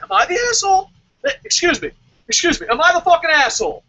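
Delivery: a confused fan shrieking in disbelief; baffled crowd guy. Retold or imitated. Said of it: "you just hear in the crowd".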